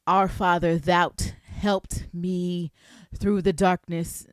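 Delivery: put-on slow, stiff, old-fashioned formal prayer voice; King James prayer. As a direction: pray like reading the King James Bible, drawn out. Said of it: "start speaking in King James Version".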